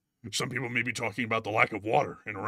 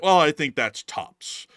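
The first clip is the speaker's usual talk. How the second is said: slow mock imitation of the Seinfeld guest; a slow, light copy of the line; lightly imitated Seinfeld singer; imitating the guy; 4 dB louder, slower than usual. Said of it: "the way that guy said that".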